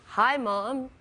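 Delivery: lightly put-on American accent. Daughter phoning Mom in American, lightly put-on accent. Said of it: "makes me talk in this accent".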